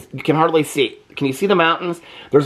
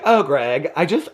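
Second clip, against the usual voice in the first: 1 mock swooning heroine; 4 semitones higher, slower than usual. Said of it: "I would do this voice".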